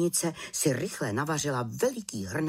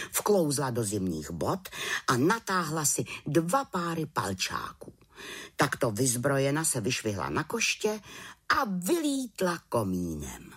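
plain reading voice

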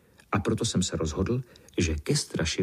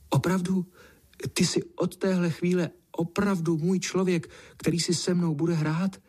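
much higher, overjoyed cat voice; delighted outburst; 9 semitones higher than usual. Acted. Named cat rejoices at finding her person, high and joyful. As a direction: burst out in happy disbelief. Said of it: "Kočce zazářily zlaté oči a vyhrkla".

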